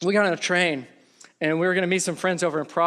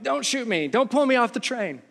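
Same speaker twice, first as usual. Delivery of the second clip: higher-pitched, mildly frightened plea; mock pleading; 5 semitones higher than usual. Passenger to armed soldiers on the train, mock pleading. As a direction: imitate a nervous passenger begging.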